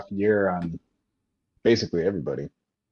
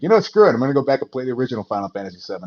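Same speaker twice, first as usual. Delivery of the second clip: mock fed up; 4 semitones higher, 3 dB louder, much faster than usual. Mock self quote, giving up.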